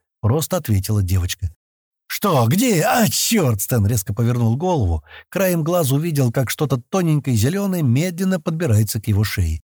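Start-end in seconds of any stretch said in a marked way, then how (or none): 2.1-3.6 sudden jumpy questions, pitch leaping up; a touch of panic, ending in a curse; startled alarm. A narrator's reading. Creature crawling on his neck. (испуганно, с лёгкой паникой)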